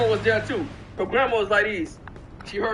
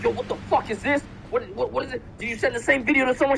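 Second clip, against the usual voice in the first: raised, upset questioning; angry confrontation; 7 semitones higher than usual. Retold or imitated. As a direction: demand an answer from her. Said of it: "I'm like".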